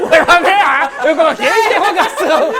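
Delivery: grito agudo, às gargalhadas; protesto aos gritos. Real, not acted. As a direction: berre indignado, morrendo de rir. Protesta rindo ao perder no jogo. (gritando e rindo ao protestar)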